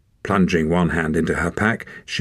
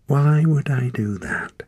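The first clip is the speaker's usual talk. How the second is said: scornful; 8 semitones higher, slower than usual. Acted. Wren scornful, rolling eyes.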